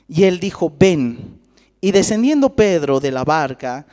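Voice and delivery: measured, emphatic Bible reading; scripture reading. Real, not acted. Preacher reading the story of Peter to the church, scripture reading. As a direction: read the passage out firmly to a congregation. Reads the Bible passage aloud.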